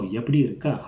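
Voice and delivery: "Yepti irukka" asked, voice lifting on irukka; questioning tone. Shown as a demonstration. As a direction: put a question tune on "irukka". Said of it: "You want to know".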